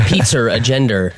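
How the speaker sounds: "pizza" ending in an R, like "pizzer"; added R. Shown as a demonstration. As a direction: put an R on the end of "pizza" and "gender". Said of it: "You add the R".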